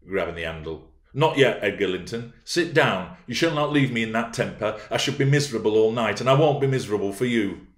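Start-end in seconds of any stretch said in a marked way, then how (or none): 1.1-7.7 raised, imperious pleading; pressing, wilful command; insistent. Acted. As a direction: keep him from leaving, insisting. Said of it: "she persisted".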